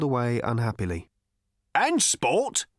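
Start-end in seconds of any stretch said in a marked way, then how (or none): 1.7-2.7 a louder, higher call of and sport; loudly. A narrator's reading. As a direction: shout it out from the crowd. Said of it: "said another, loudly".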